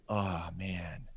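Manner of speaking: soft breathy whisper of disappointment; deflated sigh of a word, almost voiceless; bummed out. Retold or imitated. Boss hears I'm leaving, bummed whispered sigh. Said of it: "he kinda was all bummed out".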